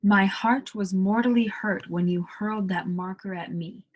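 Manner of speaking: British accent, R dropped in "heart" and "marker". Shown as a demonstration. Teacher demos a British accent to learners. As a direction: read it British style, no R. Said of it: "Again, that one".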